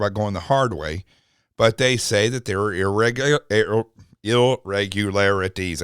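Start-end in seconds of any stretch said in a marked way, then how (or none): 2.7-5.8 stumbling over a word. Real, not acted. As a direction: trip on the long word and restart. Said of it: "I can't say it unless I say it like a robot".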